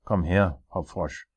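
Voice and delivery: loud, commanding king; tyrant king. Acted. King calling his jester in, commanding.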